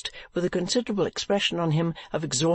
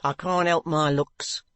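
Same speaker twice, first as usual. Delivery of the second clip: a cold, hushed whisper; stern wife hushing her husband. Acted. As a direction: shut him down in an icy undertone. Wife answers coldly.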